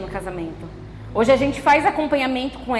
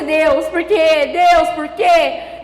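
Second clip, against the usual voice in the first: slow, loud plea to God; anguished questioning cry; 3 dB louder, much slower than usual. Retold or imitated. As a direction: drag out the why in anguish. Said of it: "E aí você". (clamor lento e alto)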